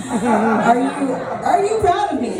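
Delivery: fishing for praise, playfully; mock hopeful plea. Comic mock-asking her mom if she's proud.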